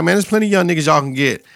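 brushing Kane off. Retold or imitated. Kane turning down the OGs, quick and dismissive. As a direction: wave them off quickly.

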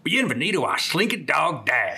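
retelling the Slinky Dog Dash announcer in Spanish; Spanish accent. Retold or imitated. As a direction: imitate the cheery Disney ride voice. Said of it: "the same thing in Spanish with the accent".

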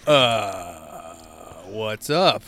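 low, drawn-out "uh", then a cautious check-in; stall, then ask carefully and softly; hesitant. Retold or imitated. Man to crying date mid-hookup, hesitant. Awkward reaction to crying partner.

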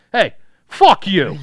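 loud, high, slow cussing; hammed-up robot outburst; foul-mouthed droid. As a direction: swear like a rude little robot. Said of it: "he was probably like this".

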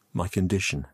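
numb, understated repetition; dazed echo, barely inflected. Acted. Youth echoes the man's words, numbly. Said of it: "I repeated numbly".

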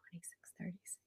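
a soft unvoiced whisper to herself; whispered counting. Real, not acted. Teacher tallying her years aside, under her breath.

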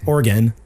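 "Oregon" with a short, reduced "gun" ending; corrected Oregon. Shown as a demonstration. Correcting himself to his co-host, "Oregon" ending in "gun". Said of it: "I'm sorry".

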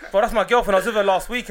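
laughing. Real, not acted. Retelling absurd claim, laughing.

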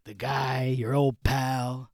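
name yourself casually in character; a singer's voice. Pretend. Host as a famous singer listing his own nicknames, lightly voiced. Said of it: "I'm in character".

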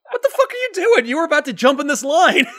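high, loud indignant squawk with laughs; hammed-up outrage at a line-jumper; mock outraged yell. Mocking a stranger who asked about the line, high indignant yell.

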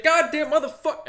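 mock angry cursing. Retelling a TikTok driver's reaction to dogs, mock angry curse.

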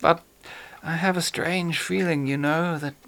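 lightly voiced suave villain; a hint of a genteel British horror actor; Peter Cushing voice. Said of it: "Peter Cushing as Major Benedek".

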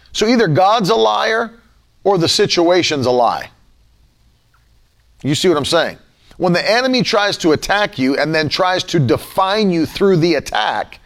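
ordinary talk

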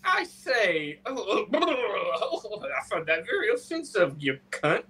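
hammed-up English gent accent, slow blustering laugh; mock old-film English accent. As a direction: send up an old Ealing bloke's accent. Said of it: "had exactly the same accents".

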